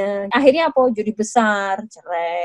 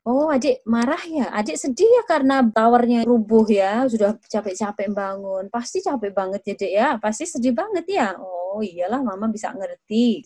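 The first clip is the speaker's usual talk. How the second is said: empathetic. Shown as a demonstration. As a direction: soothe the child over the fallen tower. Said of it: "Kita berempati". (ibu menghibur dengan lembut)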